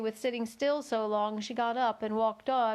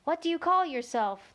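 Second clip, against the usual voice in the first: soft sweet fawn; 6 semitones higher than usual. A narrator's reading. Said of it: "Such a soft, sweet voice it had".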